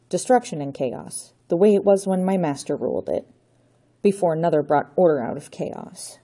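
a hint of a theatrical count gloating; storybook villain declaiming doom; villainous Count. Count Otto's villain speech.

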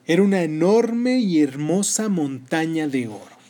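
calm storyteller reading a tale; story narration. Acted. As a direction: narrate gently, like a bedtime story. Reads the story Posesividad aloud.

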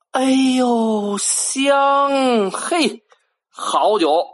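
high, rising cries of delight; delighted exclaiming. Acted. Villagers smell fine wine rising from the river, delighted cries. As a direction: savour the smell and cry out.

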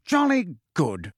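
drawn-out jovial repeat; hearty. Acted. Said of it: "said Fudge heartily".

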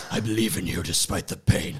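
a lightly hammed-up pious prayer voice; mock righteous prayer. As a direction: parody the fake, polished prayer. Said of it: "a super righteous prayer".

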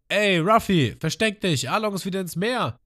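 Lysop yelling. Retold or imitated. Lysop yells at Ruffy to hide, high and panicked. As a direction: yell to your friend to take cover. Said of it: "Dann schreit Lysop".

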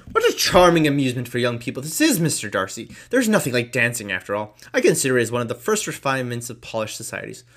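pompous host making small talk, lightly; lightly voiced Sir William.

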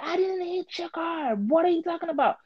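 lady who hit the car, in a high mocking voice; mock white lady. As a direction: imitate the lady's high innocent denial.

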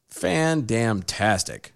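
slow drawn-out sarcastic praise. Real, not acted. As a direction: stretch it out sarcastically.

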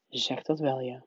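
low, soft, hollow agreement; mumbled. A narrator's reading. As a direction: mumble agreement with a sinking feeling. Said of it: "mompelde meneer Duffeling". (laag, bedrukt gemompel)

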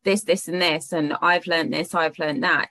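lightly mocking a gushing self-help coach; breezy sales pitch, tongue in cheek; fluffy guru voice. Podcast host teasing fluffy coaches, lightly mocking gushing pitch. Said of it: "you're not fluffy like we were talking about".

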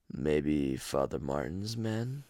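slow, low, soft calm twin; calmer twin voice. Retold or imitated. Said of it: "one sounds a little bit more raspier".

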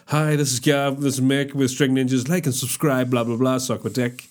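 lightly put-on channel intro; mock promo patter, rattled through; voiceover voice. Shown as a demonstration. Demonstrating the voiceover for their channel, mock advert voice. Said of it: "That's the voice I'm gonna do the voiceover".

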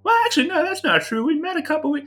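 a bumbling mage explains to a shocked father; cheery fumbling mage. Acted. GM voices Tigmar at length.

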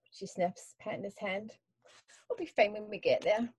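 calm storyteller reading a memoir; story narration. Acted. Author reads her prologue aloud.

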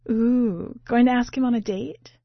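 high, loud mocking tease; playful teasing. A narrator's reading. Angelita teasing Eduardo about the German boy, playful jab. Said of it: "a playful hostility to her speech".

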